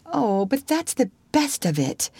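high-pitched eager protest; girlish, high objection. A narrator's reading. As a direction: object earnestly, pitch lifted. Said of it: "protested Anne".

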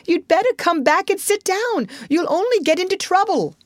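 high, urgent warning; calling after someone. A narrator's reading. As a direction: call out a warning as he leaves. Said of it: "called the Rat after him".

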